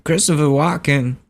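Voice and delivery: name yourself in the star's halting, lilting voice; Christopher Walken. Retold or imitated. Prank caller giving his name, celebrity impression. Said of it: "And I was like".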